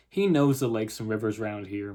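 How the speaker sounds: lightly voiced Southern mother; Southern accent. Mother cuts in on the policeman, light Southern accent. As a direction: chime in with a touch of Southern. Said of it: "if I have a terrible Southern accent".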